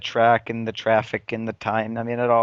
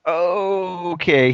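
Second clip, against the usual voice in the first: long stretched, higher "okay"; drawn-out okay; 4 semitones higher than usual. Retold or imitated. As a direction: draw it out, taken aback by his mood. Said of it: "I was just like".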